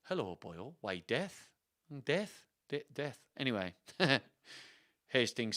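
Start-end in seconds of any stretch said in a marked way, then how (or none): 0.0-3.2 practising Welsh, hesitantly; badly faked Welsh; attempted Welsh accent. Shown as a demonstration. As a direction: hunt for the Welsh accent word by word. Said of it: "I can't get it".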